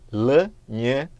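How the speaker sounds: "L, nhã." split into separate consonant sounds. Shown as a demonstration. Teacher splitting lhama into its sounds. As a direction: break "L, nhã." into its pieces. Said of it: "dois sons consonantais".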